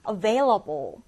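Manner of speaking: "available" with VAIL stressed; light a, lean on VAIL in "available"; stress on second syllable. Shown as a demonstration. Teacher has learners read along, "available" stressed on VAIL. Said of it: "두 번째 음절의 강세를 두고".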